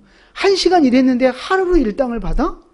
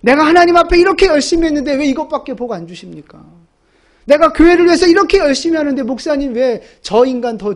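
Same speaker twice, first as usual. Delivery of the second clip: mock complaining; 2 semitones higher, 4 dB louder than usual. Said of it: "그런 마음으로 신앙생활 하고 있지 않냐고요".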